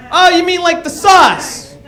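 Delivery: high mock-dumb "Oh, you mean like the sauce?"; mocking questioner. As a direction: play the clueless guy who thinks he's clever. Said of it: "The first thing anybody ever says".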